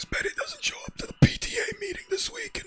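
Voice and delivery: synthetic computer reader; robotic TTS voice. Acted. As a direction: read it like a speech synthesizer. Text to speech voice reading.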